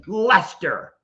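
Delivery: lightly mock-shouted name; all-caps voice. Streamer calling out commenter Lester, mock stern shout. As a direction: call it out as if in capitals. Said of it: "so I'm gonna talk in all caps".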